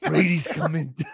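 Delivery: hammed-up Sopranos mobster accent. Co-host restarting his requested bit, Sopranos accent. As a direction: attempt a Sopranos accent, breaking off. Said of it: "In your best Sopranos accent".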